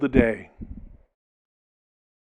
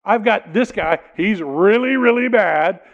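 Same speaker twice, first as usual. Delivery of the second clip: pleading Pilate; 5 semitones higher, 4 dB louder than usual. Retold or imitated. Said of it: "I suspect that Pilate goes".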